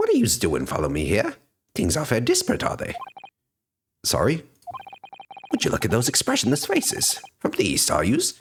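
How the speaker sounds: lightly put-on Irish accent, chatty and nosy; a stranger sizing up the foreigners in a hammed-up Irish brogue; rough amateur Irish accent. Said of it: "what fucking British accent am I supposed to use".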